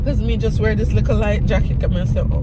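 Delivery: stuffy head cold voice; blocked nose. Real, not acted. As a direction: talk through a blocked nose. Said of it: "I'm very congested".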